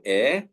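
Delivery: "air" as "eh", no R; English pronunciation. Shown as a demonstration. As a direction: drop the R in "air". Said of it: "the English pronunciation of the same spelling".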